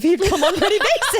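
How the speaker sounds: words bursting through laughter; giggling helplessly while confessing; laughing hard. Real, not acted. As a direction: laugh through the whole line.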